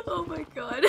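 laughing. Real, not acted. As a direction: gasp it out through laughter. Helpless laughter at the bulletin.

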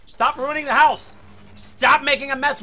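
loud, slow telling-off; mock scolding. Real, not acted. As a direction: scold yourself over the mess. Scolding himself for knocking books.

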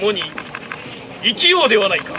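firm samurai declaration; solemn warrior line. Shown as a demonstration. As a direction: proclaim it like a samurai lord. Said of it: "では参る。".

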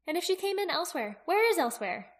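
put-on high girl's voice, posing a puzzle; questioning young Aki. Aki listing open questions for Jaqen, high questioning voice.

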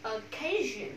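"Occasion" opening on a clear separate o; o, not ơ. Shown as a demonstration. Teacher correcting the first vowel, clear o in "Occasion". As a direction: start "Occasion" with a rounded o, then pause. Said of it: "Không phải âm là ơ".

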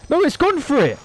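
high, loud anguished yell; anguished shout. Real, not acted. Gamer seeing the Seamoth attacked, anguished shout. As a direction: cry out as it's lost.

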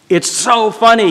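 high-pitched excited delight; imitating an excited, amused driver. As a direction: tell it with eager amusement. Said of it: "he said excitedly".

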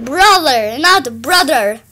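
Brother then brother, th versus d sound; correcting brother. Shown as a demonstration. Correcting the sister's pronunciation of brother. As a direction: show the right Brother, then the wrong one. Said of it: "Not with a D, with a".

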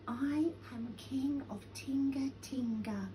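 soft, timid little voice; tiny voice. A narrator's reading. Lion announcing himself to Flea, in a tiny voice. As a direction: say it small and unsure. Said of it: "said Lion in a tiny voice".

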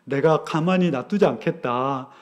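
lightly voiced God, low and restrained. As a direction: imitate God answering a protest, quietly. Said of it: "그때 하나님이 얘기합니다".

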